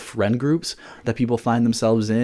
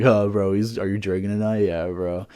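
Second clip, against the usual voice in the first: frat bro talk; 2 semitones lower than usual. Retold or imitated. Imitating how frat guys around him talk, lightly. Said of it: "talking like this".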